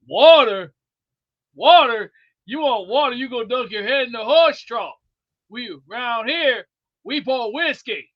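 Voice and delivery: loud incredulous bartender, mocking the water order; mock scornful bartender. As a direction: scoff at him like a saloon bartender. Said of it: "when a bartender looks to the".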